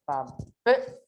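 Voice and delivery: "Papel" split, with a punched "pel"; low "pa", then emphatic rising "pel" in "Papel"; stress on last syllable. Shown as a demonstration. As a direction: hit the second syllable of "Papel" harder. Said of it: "ele tem mais forte aqui".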